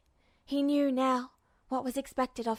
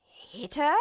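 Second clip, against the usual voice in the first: shocked stammer. A narrator's reading. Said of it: "Havoc stammered at last".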